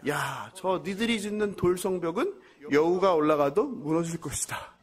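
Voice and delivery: an enemy mocking the new wall; mocking taunt. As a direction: taunt them with scorn. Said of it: "이렇게 조롱합니다".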